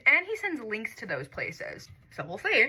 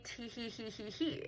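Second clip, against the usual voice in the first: giggle; 14 dB quieter than usual. Retold or imitated. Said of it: "making me giggle".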